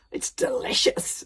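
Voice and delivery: whispered relish. Acted. Dragon savouring.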